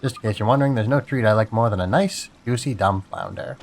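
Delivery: lightly voiced chatty crab. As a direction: play a friendly talking crab. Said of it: "this is my crab voice".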